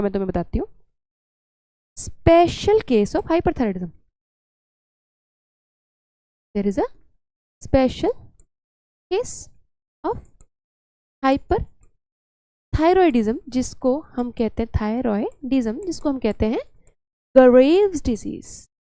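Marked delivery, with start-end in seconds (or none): 2.0-13.4 word by word, with long gaps; slow dictation. Real, not acted. Teacher dictating a heading on hyperthyroidism, slow dictation. 17.3-18.7 slow dictation. Real, not acted. Announcing the term for notes.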